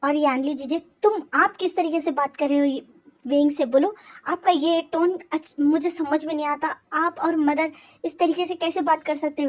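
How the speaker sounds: mild acted outrage; angry protest. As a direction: demand an answer from both. Brother confronts sister and mother.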